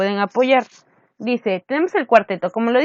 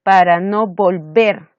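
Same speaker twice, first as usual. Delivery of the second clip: volver leaned on, a bit slower; stressed syllable; 3 dB louder, slower than usual. Shown as a demonstration. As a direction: mark the accent on volver. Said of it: "en la octava". (acento marcado en volver)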